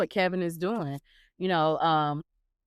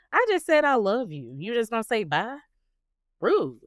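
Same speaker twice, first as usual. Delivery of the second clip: higher, indignant retort ending on a curt RUDE; mock offended; 4 semitones higher than usual. Mom to her son after his bare goodbye, mock offended. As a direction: play up being slighted by your child.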